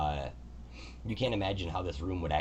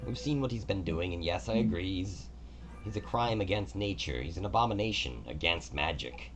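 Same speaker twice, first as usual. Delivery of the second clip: god Kelemvor; 3 semitones higher than usual. Acted. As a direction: speak as a gracious, orderly god. Kelemvor's long explanation.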